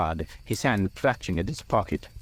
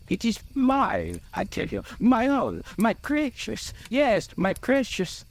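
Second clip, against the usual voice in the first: possessive Bilbo; 13 semitones higher than usual. A narrator's reading. Bilbo claims the ring as his precious, possessive.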